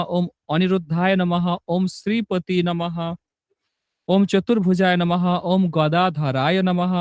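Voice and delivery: even, rhythmic chant of sacred names; steady mantra recitation. Acted. Teacher reciting Jagannath's hundred and eight names for devotees, steady chant. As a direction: recite each name like a devotional litany.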